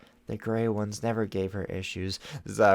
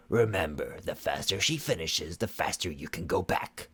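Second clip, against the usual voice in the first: cold stern sorceress; 4 semitones lower than usual. Acted. Shadow Weaver cajoling.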